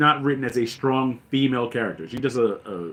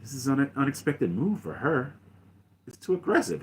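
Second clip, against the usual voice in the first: quiet, scowling Sidious read, much softer; hushed Darth Sidious; 8 dB quieter than usual. Retold or imitated. Fan voicing a frowning Sidious, hushed and scheming. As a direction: drop to a hushed, frowning villain murmur. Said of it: "whose face is always frowned up".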